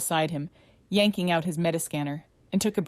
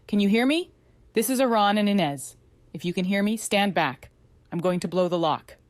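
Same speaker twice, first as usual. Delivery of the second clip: shouting; 3 semitones higher, 3 dB louder than usual. Acted. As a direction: shout through the locked door. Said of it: "he shouted".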